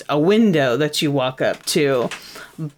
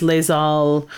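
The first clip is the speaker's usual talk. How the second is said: French pronunciation of Les Halles Boulangerie; French accent; 3 semitones lower than usual. Shown as a demonstration. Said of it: "that is my professional French accent".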